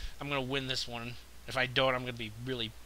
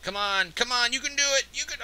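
high, loud urging; root hard for your troops; real excited encouragement; excited cheering; 9 semitones higher, 4 dB louder than usual. Real, not acted. Cheering units on in battle.

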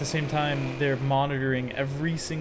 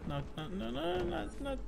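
stutter; 10 semitones higher, 11 dB quieter than usual. Real, not acted. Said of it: "Don't know why I stuttered".

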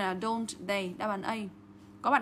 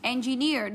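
Engineer as en-gi-NEER; stress on the suffix; much slower than usual. Shown as a demonstration. Teacher showing self-stressed ending, Engineer as engi-NEER. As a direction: hit the final NEER of Engineer. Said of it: "đuôi tự nhấn trọng âm vào đây".

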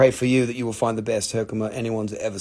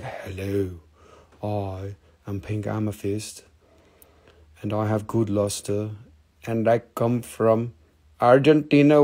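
lightly put-on Indian accent, low; talking rock with a hint of an Indian accent; 4 semitones lower, 4 dB quieter than usual. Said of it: "with an Indian accent".

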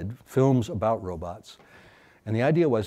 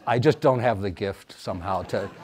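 laughing; 4 dB louder than usual. Real, not acted. Self-mocking about seduction.

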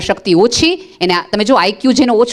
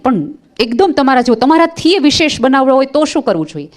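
eager mother; 6 semitones higher than usual. Retold or imitated. Mother presses Einstein eagerly.

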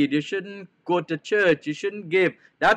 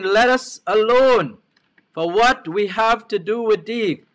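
higher, louder scripture quote; retold loud cry, only partly raised; mildly raised cry; 4 semitones higher, 3 dB louder than usual. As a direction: quote the spirit's outcry with moderate force. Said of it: "cried out with a loud voice".

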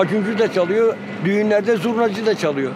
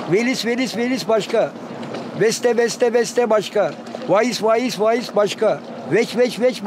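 chirped variants, each named; showing the bird's four V calls; V-letter bird calls; slower than usual. Retold or imitated. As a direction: rattle through the finch syllables. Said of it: "V harfinden kuş dört türlü ön yapar".

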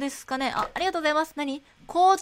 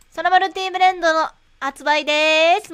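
sales pitch call; 3 semitones higher, 6 dB louder than usual. Pretend. Announcing new product.

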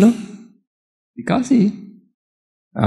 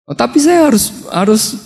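a lovesick man crying out that he must; mock desperate outcry; desperate pleading cry; 6 semitones higher than usual. Upaka pleads to marry.

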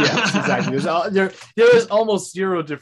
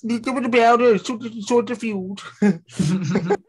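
high, slow pirate bark; hammed-up high pirate line; pirate impression; 6 semitones higher, slower than usual. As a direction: growl it slowly like a pirate captain. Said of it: "Good run".

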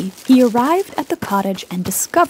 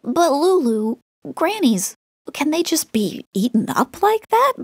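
put-on lightly raised curious little child; a young child asking, a touch higher; child's voice; 5 semitones higher than usual. Little Lou asking storyteller worried, in a light child voice.

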